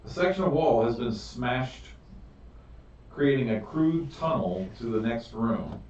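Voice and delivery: slow, measured narration with drawn-out key words; game master's scene setting. Acted. Game master describing the chamber and visions to players, scene-setting narration. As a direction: set the scene deliberately, phrase by phrase.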